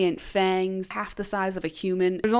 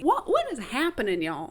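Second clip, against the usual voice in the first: high incredulous what; can't believe this story; addressing viewers in high, incredulous disbelief; 4 semitones higher than usual. Real, not acted. Disbelief at events.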